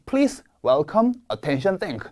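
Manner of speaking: Please, welcome, attention, thank, each hit hard; slow, punch each word; each word stressed. Shown as a demonstration. Teacher modeling strongly stressed opening words. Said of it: "보였다 하면 세게 읽어주셔야 합니다".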